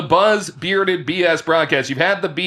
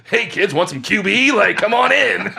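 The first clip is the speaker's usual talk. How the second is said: creepy van guy; 7 semitones higher, 3 dB louder than usual. Pretend. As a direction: lure the kids in like a shady stranger in a van. Creepy van guy luring kids.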